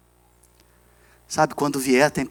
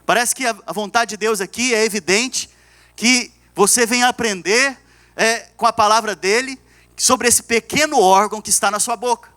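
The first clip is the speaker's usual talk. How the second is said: higher-pitched sermon delivery; earnest preaching; 7 semitones higher than usual. Real, not acted. Pastor teaching God's will to the church, earnest preaching. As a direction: press the point home to the congregation.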